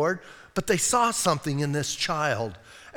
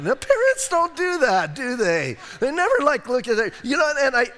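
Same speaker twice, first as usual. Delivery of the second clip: emphatic exclaiming; 8 semitones higher, 4 dB louder than usual. Real, not acted. Preacher exclaims at congregation.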